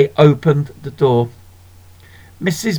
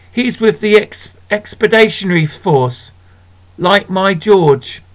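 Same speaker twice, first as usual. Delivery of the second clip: proud shopkeeper; 4 semitones higher than usual. Acted. Missus Beams voiced.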